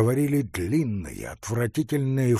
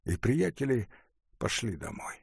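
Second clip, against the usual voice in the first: ordinary delivery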